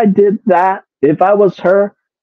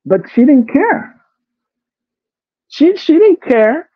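outraged disbelief; 10 semitones higher than usual. Real, not acted. Outraged exclamation, big pitch rise.

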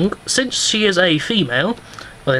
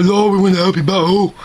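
put-on kid voice; 3 semitones higher, 3 dB louder than usual. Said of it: "kids come in and go".

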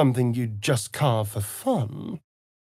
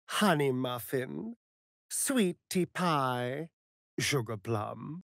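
sweet endearments; 2 semitones lower, 5 dB quieter, slower than usual. Shown as a demonstration. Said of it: "Repeat after me".

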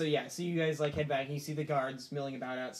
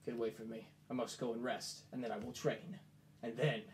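Arano's vow; 3 semitones lower, 7 dB quieter than usual. Acted. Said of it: "And Arano goes".

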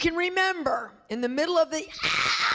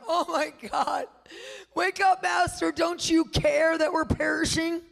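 panicked cry; 4 semitones higher than usual. Retold or imitated. Disciples crying to the sleeping Master in terror. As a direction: cry out as if the boat is sinking.

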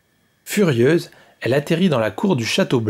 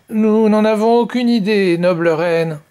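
stammering; 9 semitones higher, 5 dB louder than usual. Acted. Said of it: "balbutia le plus ancien d'entre eux".

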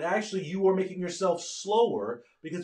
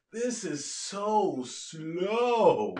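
bored brain; 2 semitones higher, much slower than usual. Retold or imitated. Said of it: "Your brain says".

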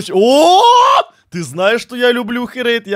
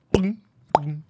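mouth sound effect; 7 semitones lower, 6 dB quieter than usual. Shown as a demonstration. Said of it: "Это я тоже".

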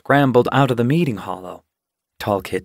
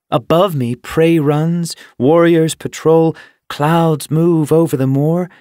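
wonder; 5 semitones higher, 5 dB louder than usual. A narrator's reading. She describes her secret world.

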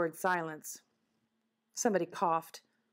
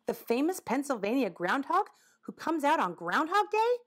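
higher-pitched, rising wonder; eager question; 6 semitones higher than usual. Acted. Madison asking about famous cousin Phil, wondering. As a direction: ask it climbing to a high finish. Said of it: "asked Madison May".

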